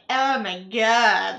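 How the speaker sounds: slow, drawn-out Oh my God, put-on gush; lightly mock a gushing MLM seller. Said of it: "whatever that voice is".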